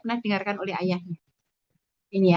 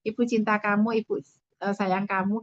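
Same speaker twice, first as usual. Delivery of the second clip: slow, tender i love you; loving words to a child. Shown as a demonstration. Parent telling a child they love them, slow and tender. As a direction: say it slowly and lovingly, like a caress. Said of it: "orang tua harus mengatakan".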